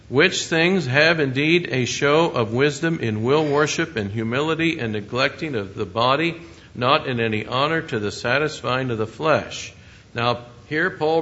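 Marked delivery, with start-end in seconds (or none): 0.1-9.7 louder, measured Bible reading; scripture reading. Acted. Preacher reads Paul's verse to the congregation, scripture reading. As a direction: read the verse out firmly to the congregation.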